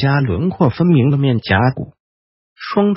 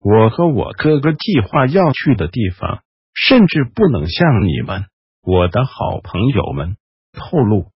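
sarcastic whisper; 4 semitones lower than usual. Acted. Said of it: "轻柔的声音中似乎带着几许讽刺". (轻柔嘶哑带讽刺)

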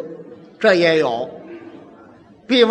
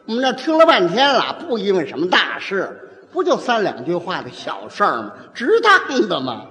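mild female peacemaker; 2 semitones lower than usual. Acted. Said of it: "女的过去是这样说".

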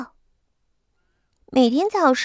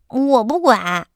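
irritated; slower than usual. Acted. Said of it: "琪琪烦躁地说".

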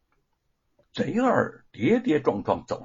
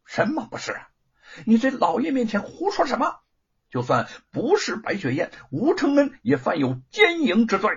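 a hint of a menacing magistrate; gloomy scolding official; 9 semitones higher than usual. A narrator's reading. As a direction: scold the servant from behind a dark face. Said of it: "罗万金阴沉着脸望着贼儿".

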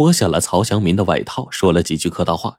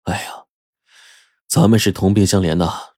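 long sigh. Acted. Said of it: "就长叹说".

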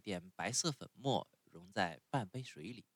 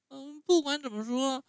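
much higher, louder wailing tantrum; crying and yelling; 8 dB louder than usual. A narrator's reading. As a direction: bawl it out like a child in a tantrum. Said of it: "匹诺乔大哭大叫".

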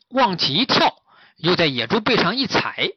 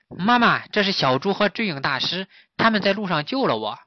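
lightly voiced child, higher pitched; little fawn; 5 semitones higher than usual. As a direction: introduce rescuers to mother as a little fawn. (小鹿童声介绍)

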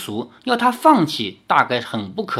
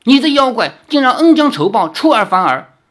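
higher, louder, fast furious rebuke; an angry swordsman denouncing a betrayer; angry accusation; 9 semitones higher, 6 dB louder, faster than usual. Acted. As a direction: hurl the charge at the treacherous demon. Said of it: "怒道".

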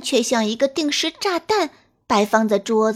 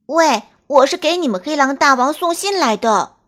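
hasty call; 4 semitones higher, 5 dB louder than usual. Acted. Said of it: "急忙扬起手中的信说".

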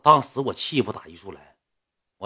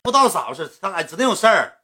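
higher, fussy grumbling woman's voice; girl venting, pitched up and annoyed; imitating a fed-up woman; 6 semitones higher than usual. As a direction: play her griping about the guy and the assistant. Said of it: "指定是这样口吻".

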